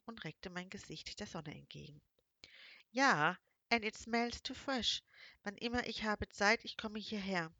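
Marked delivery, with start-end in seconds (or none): 2.9-7.5 lightly voiced young man, eagerly reassuring, louder; friendly foreign man. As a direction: reassure her warmly in his English-accented voice. Male character, broken German. (leicht gesprochener Engländer, der eifrig beruhigt)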